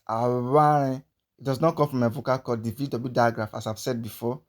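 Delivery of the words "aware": aware with air squeezed through the lips on w; Aware, the w buzzed between the lips; squeezed lip sound. Shown as a demonstration. Teacher explaining to learners, squeezed lip sound. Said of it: "like I'm trying to squeeze air through my lips".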